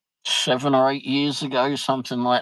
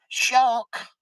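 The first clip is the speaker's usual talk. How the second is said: sudden high shriek of alarm; retold shriek; 12 semitones higher than usual. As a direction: squeal the warning like a panicked wife. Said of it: "Wendy goes".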